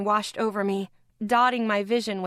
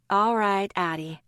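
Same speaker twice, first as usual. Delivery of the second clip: softening. Acted. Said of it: "her voice softening".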